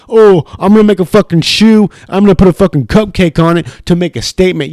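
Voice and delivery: mocking Durant. Mocking Durant's whining about shoes.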